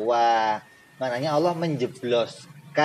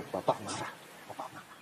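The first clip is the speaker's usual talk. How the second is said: softer, frightened little murmur; hushed child; 5 semitones lower, 15 dB quieter, much faster than usual. Retold or imitated. Teacher voicing a scared child seeing father angry, hushed. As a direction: whisper it like a scared child who sees dad angry.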